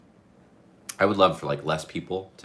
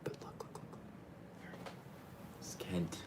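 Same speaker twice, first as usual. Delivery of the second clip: hushed whisper so he won't wake; 20 dB quieter, slower than usual. Real, not acted. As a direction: whisper it softly. Pointing out someone sleeping nearby.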